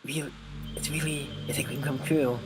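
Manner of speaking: lightly voiced sweet game girl; Monika voice. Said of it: "the voice I did was fine".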